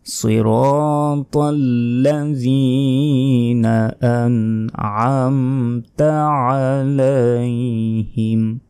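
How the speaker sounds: drawn-out Quranic recitation. Shown as a demonstration. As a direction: recite it slowly with long held vowels. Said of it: "Quran recitation demo".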